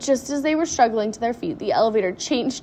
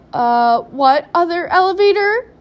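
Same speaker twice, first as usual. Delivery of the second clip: loud cry climbing high; alarmed scream; 7 semitones higher, 10 dB louder than usual. A narrator's reading. Mother learns of another elevator, alarmed scream. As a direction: shriek the question in alarm. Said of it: "screamed Missus T V".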